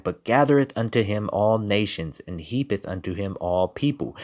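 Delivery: measured biblical reading voice; scripture reading. Acted. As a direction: read the verses like a preacher at the pulpit. Reads scripture.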